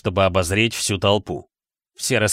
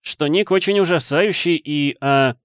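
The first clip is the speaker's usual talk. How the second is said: higher-pitched, fumbling for words; hurried; 6 semitones higher than usual. A narrator's reading. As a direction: blurt it out and falter. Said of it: "торопливо произнёс Гарри". (торопливо, с запинкой)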